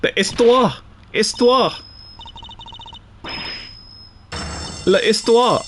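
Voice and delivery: histoire said ees-TWAR, no h; playful French pronunciation of histoire; French word practice. Shown as a demonstration. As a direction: try L'histoire the French way. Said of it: "spamming square for the history".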